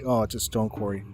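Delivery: ordinary talk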